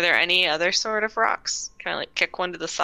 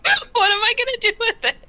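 laughing; 12 semitones higher, 5 dB louder than usual. Real, not acted. Laughing through question.

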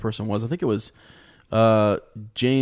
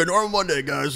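mock podcast host; 6 semitones higher than usual.

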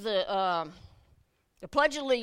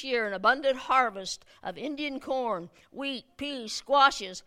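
formal proclamation reading; 3 dB louder than usual. Acted. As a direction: read it like a magistrate's decree. Reads old proclamation aloud.

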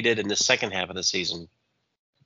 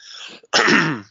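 throat-clearing grunt; 8 semitones higher, 7 dB louder than usual. Real, not acted. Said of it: "Here I am coughing and grunting".

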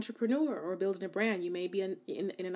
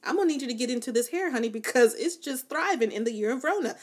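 excited hype; 4 semitones higher, 4 dB louder, faster than usual. Retold or imitated. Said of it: "I was like".

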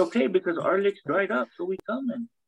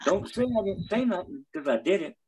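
heroic rallying shout. Acted. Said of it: "wrestling promo".

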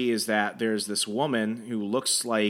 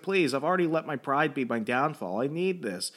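higher-pitched imploring; retold plea, lightly hammed-up; mock pleading; 5 semitones higher than usual. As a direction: act out a desperate employee begging. Acted pleading of desperate intern.

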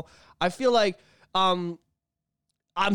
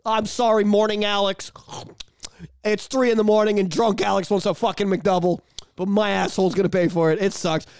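mock apology. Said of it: "I'm just like".

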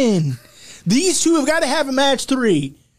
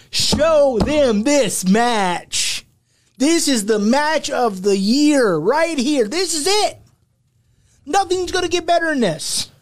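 ringmaster; 3 semitones higher than usual. Acted. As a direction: sell it like a carnival barker. Hyped ringmaster promo.

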